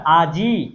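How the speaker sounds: "আজি" slowed, the closing I held; final I shown. Shown as a demonstration. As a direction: draw out the I ending "আজি". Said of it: "ই, এই যে ইকার". ("আজি"-র ই-কার টেনে দেখিয়ে)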